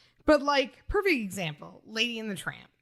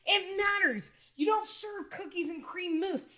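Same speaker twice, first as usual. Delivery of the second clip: mock indignation; 6 semitones higher than usual. Retelling friend's indignant complaint.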